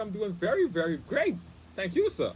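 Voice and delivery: politely upbeat with a jovial touch; jovial reply. Retold or imitated. Guest answers the husband at the fence, jovial. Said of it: "jovially said good morning to him".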